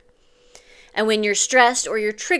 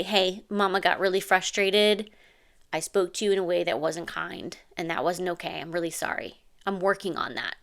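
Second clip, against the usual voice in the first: soft, tender apology getting quieter; gentle apology; 4 dB quieter than usual. Shown as a demonstration. Mom apologizing to her calmed child, soft and tender. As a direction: kneel down and apologize softly.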